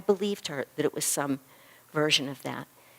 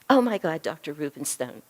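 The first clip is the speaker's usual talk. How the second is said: surprised exclamation; 4 dB louder than usual. Retold or imitated. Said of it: "She said, just like this".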